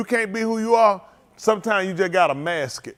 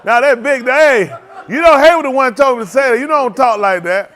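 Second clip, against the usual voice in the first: laughing shout; 2 semitones higher, 6 dB louder than usual. Real, not acted. Laughing at Hayward's joke.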